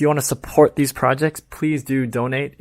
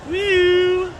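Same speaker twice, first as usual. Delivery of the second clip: whoop. Acted. Riding escalator, whooping.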